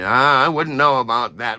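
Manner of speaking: loud mock self-importance; puffed-up, mocking retort; pompous. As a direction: imitate a pompous boob dismissing someone. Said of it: "You pompous boob".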